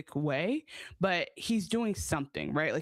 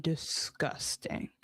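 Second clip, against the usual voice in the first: slow, whispered disgust; recoiling at the story; drawn-out disgust; 2 semitones lower, 4 dB quieter, much slower than usual. Real, not acted. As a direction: let the word curl with revulsion. Reacting to the retold scene.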